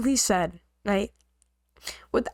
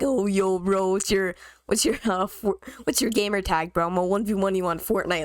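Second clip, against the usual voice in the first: trolling. Retold or imitated. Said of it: "I'm just trolling him".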